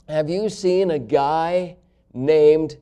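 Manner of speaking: slow, halting odd stranger. Retold or imitated. Stranger at the car window, slow and odd. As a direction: drag it out like a strange man. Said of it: "he talked at a normal volume".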